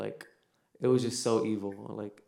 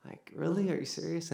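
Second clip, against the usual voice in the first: higher-pitched incredulous protest; comically put-out, pitched up; mock indignant; 7 semitones higher, 3 dB quieter than usual. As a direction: act out mild, joking disbelief. Retelling mock indignant reaction to rescuers.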